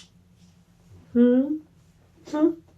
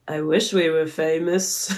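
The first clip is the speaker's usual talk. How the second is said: badly imitated British accent, low-pitched; self-consciously mock British accent; butchered British accent; 5 semitones lower than usual. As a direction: have a go at a British rock star's voice. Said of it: "his beautiful British accent".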